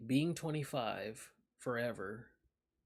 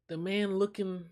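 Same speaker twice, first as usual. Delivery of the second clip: high, loud, breaking into giggles; laughing; 6 semitones higher, 7 dB louder than usual. Real, not acted. Streamer laughing at a silly card picture, high and loud. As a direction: still cracking up mid-sentence.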